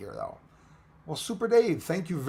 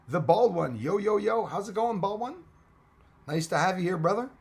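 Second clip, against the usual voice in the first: higher and louder, pumped-up welcome; hyped greeting; 6 semitones higher, 4 dB louder than usual. Real, not acted. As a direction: greet him like a hype man.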